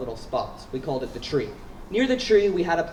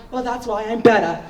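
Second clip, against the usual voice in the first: higher, louder smug boast; smug friend; 6 semitones higher, 5 dB louder than usual. Retold or imitated. Cincy boasts before jumping, higher and louder. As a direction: brag it with a smirk. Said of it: "And he was like".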